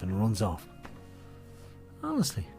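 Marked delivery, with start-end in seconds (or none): 2.0-2.5 mock exasperated. Real, not acted.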